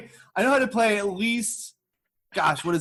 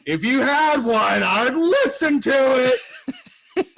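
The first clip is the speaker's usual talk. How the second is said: put-on eager drunk; 5 semitones higher than usual. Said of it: "he's like".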